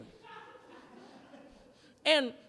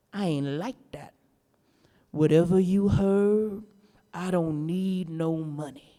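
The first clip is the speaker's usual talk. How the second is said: lightly voiced witch; 6 semitones lower than usual.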